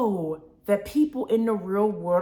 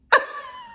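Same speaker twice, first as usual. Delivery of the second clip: sudden high squeal of a laugh; a squeaky giggle; high burst of laughter. Real, not acted. Laughs at the movie moment.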